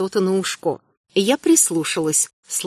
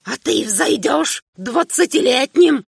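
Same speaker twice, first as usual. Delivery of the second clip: put-on higher old man's voice, slowing down; the old king starts to rage; an old emperor winding up to a shout; bitter old man, building; 5 semitones higher than usual. Old emperor rants at son.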